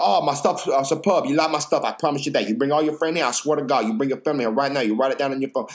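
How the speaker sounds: lightly voiced pushy owner bragging; a hint of the insistent owner; imitating the owner. Owner boasting about his food.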